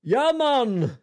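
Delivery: put-on high, loud botched Jamaican accent; laughing at a bad Jamaican accent. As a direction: shout it in a failed Jamaican accent. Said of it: "like a Jamaican accent".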